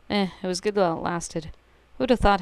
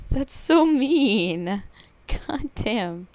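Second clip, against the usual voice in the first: laughing; 5 semitones higher, much slower than usual. Real, not acted. Laughing at the prank.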